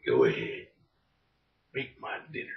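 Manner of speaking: a hammed-up movie-hero growl at the wife; mock tough guy. Married-guy spoof of the line.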